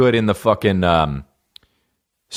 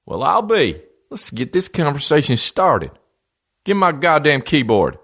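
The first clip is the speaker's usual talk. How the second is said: high, far-off hick fan voice, much higher; excited fan; 6 semitones higher than usual. Pretend. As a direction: play a giddy country fan rushing to join Facebook. Same fan voice continues.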